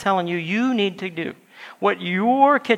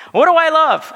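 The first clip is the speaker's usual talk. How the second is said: asking question; 8 semitones higher, 7 dB louder than usual. Pretend. Acted question from a listener.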